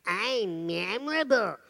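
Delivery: loud, slow, defiant declaration; confident schoolgirl. Retold or imitated. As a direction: stand tall and tell the bullies. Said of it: "she said".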